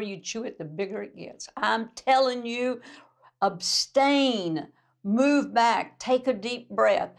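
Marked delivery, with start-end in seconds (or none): 1.6-7.1 louder, emphatic command; urgent exhortation. Acted. Preacher urging the church to step back, emphatic. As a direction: press it on them, firmly.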